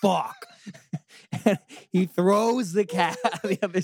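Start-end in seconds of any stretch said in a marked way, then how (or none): 0.0-0.5 loud, high, slow shocked outburst; freaked-out yell. Retold or imitated. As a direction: act out a horrified, drawn-out yell. Retold boy freaking out at cat.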